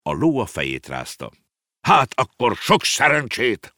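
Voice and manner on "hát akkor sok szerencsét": slow, higher, louder sarcastic shout; angry shout. A narrator's reading. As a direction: bellow the farewell slowly. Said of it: "ordított a bácsi".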